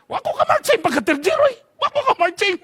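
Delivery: high pleading lament; dismayed whine. Retold or imitated. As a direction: wail about missing the march. Student dismayed at sanction. (mingaw nga pagbagulbol)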